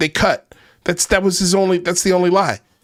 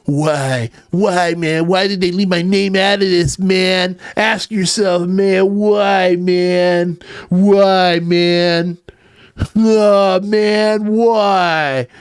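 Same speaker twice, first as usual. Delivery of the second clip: mock whiny Corbell; much slower than usual. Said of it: "parodying Corbell's line".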